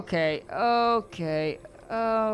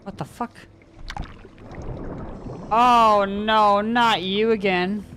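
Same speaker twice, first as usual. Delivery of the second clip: loud groaning "oh no" at a returning foe; dismayed shout; 3 semitones higher, 5 dB louder, slower than usual. Real, not acted. Streamer spots the monster coming back, loud dismayed shout. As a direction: shout it out, fed up and alarmed.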